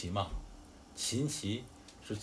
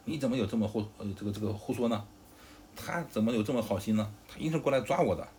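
raised voice with punched words, mildly angry; loud rebuke; 4 dB louder than usual. Acted. Zhang Fei rebukes Sun Qian for lying, mildly angry shout. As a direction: loudly shout down a liar, in a storyteller's way. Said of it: "对着孙权大喝一声".

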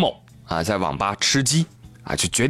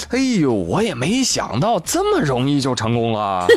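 smug laughing scammer. Retold or imitated. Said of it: "骗子表示".

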